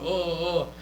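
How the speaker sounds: showboating "oh, oh, oh"; mock celebrating noise. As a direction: imitate a strutting wrestler's crowing. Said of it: "walking around going like this".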